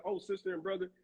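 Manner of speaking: imitating put-on church politeness; phony churchgoer. Man mimicking churchgoers' greeting, mock phony politeness. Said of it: "somebody talking like that".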